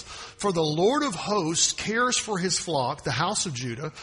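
preacher reading the prophecy aloud; scripture reading. Acted. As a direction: read it rising toward a proclamation.

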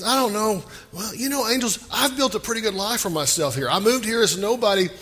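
a reluctant man talking his way out of leaving; pleading Lot. Retold or imitated. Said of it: "He, he says".

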